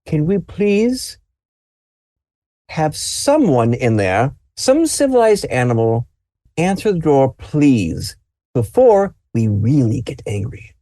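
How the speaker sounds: a mother's plea that is losing patience; angry mother. Acted. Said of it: "The mother goes".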